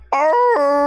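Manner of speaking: long, high imitated dog howl. Owner imitating his sleeping dog, drawn-out howl. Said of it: "Sometimes he'll howl".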